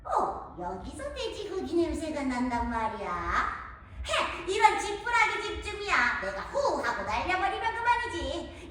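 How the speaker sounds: a sly, hungry wolf with a howl and sneaky chuckles; the hungry wolf sniffing out the piglets; hungry big bad wolf. (돼지고기 냄새를 맡는 배고픈 늑대)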